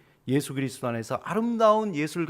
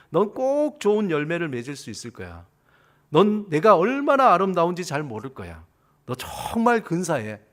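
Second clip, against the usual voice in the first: encouraging praise; 4 dB louder than usual. Acted. Experimenter to plant A, encouraging praise. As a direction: praise it earnestly, stressing the compliments. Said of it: "너 참 좋은 말을 해주고".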